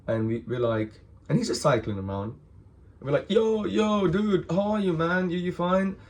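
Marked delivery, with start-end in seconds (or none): 3.3-6.0 high-pitched calling out; hailing someone. Retold or imitated. Boys hailing the guy cycling around, high casual call. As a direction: call over a passing friend.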